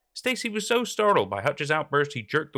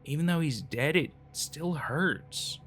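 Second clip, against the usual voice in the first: a frightened man confiding a horror; terrified, hushed confession. Acted. Terrified man describing dead brother.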